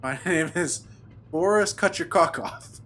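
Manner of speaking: slow, joke Russian introduction; fake Russian accent. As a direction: imitate a caller's hammed-up Russian accent. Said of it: "doing a fake Russian accent".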